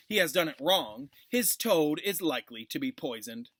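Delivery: lively storybook read-aloud with character voices; reading aloud to children. A narrator's reading. Teacher reading a Harry Potter chapter to her class, storybook read-aloud.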